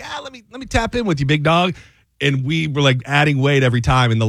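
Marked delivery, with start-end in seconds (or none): 0.0-1.7 hyped-up gym bro. Retold or imitated. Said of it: "today I'm like".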